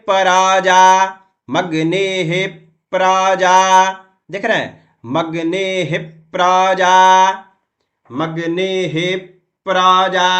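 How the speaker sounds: प्राजा with the half प pulled into the syllable; stretched प. Shown as a demonstration. Teacher showing that the half प is drawn out. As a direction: pull the प into प्राजा. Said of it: "आधा प है इसलिए प उसमें खींचा".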